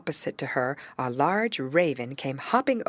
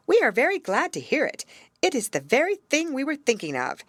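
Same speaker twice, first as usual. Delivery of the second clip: court ladies; 8 semitones higher than usual. Acted. Court ladies gladly answer the princess, higher. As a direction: gush like delighted court ladies.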